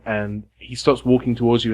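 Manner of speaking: normal talking voice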